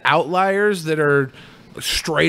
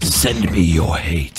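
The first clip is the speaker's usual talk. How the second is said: robot voice; 11 semitones lower, slower than usual. Acted. Donation robot voice reads.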